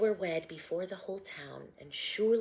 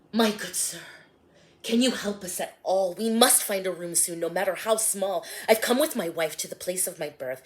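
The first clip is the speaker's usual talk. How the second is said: Joseph pleading; 6 dB louder, faster than usual. Acted. Joseph begging the innkeeper.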